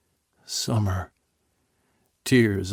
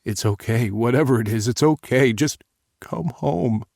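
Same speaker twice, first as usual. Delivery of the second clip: pleading reassurance; 3 semitones higher, 3 dB louder than usual. Acted. Father pleading with crying daughter.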